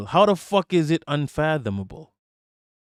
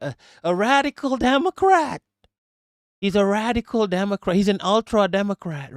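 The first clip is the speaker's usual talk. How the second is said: sarcastic emphasis; 7 semitones higher, 3 dB louder than usual. Real, not acted. Sarcastic labelling, rising emphasis.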